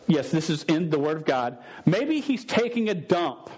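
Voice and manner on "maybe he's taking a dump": high, slow mocking taunt. Elijah mocking the prophets of Baal's absent god. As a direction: sneer it out like a heckler. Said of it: "Then he says".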